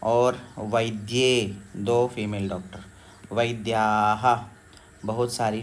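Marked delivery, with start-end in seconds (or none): 0.6-1.6 drawn-out वैद्ये, each syllable slow; slow recitation. Shown as a demonstration. Teacher slowly reciting the dual form वैद्ये. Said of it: "female doctor को वैद्या कहेंगे". 3.3-4.4 drawn-out वैद्ये, each syllable slow; slow recitation. Shown as a demonstration. Teacher slowly reciting the dual form वैद्ये. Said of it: "female doctor को वैद्या कहेंगे".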